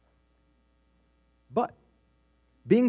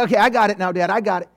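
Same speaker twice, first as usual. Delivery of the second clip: put-on eager kid; 3 semitones higher, 4 dB louder than usual. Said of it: "they go".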